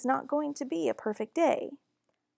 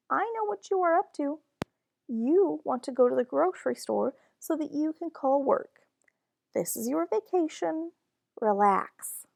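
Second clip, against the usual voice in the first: scolding; 5 semitones higher than usual. Acted. Mom scolding dad, voiced.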